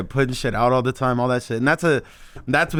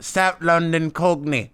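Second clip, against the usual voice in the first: drawn-out South London Cockney; slow, playful imitation of a Cockney accent; 3 semitones higher, much slower than usual. Naming girlfriend's accent to the hosts, imitated Cockney. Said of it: "It's a Cockney accent".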